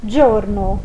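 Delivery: giorno à italiana; Italian giorno. Shown as a demonstration. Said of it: "nós lemos".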